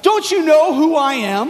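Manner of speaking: a rising, half-shouted indignant general; mock indignant bark from a general; pompous general snapping at drunk sailors; retold shout. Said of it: "kind of shouts back at them".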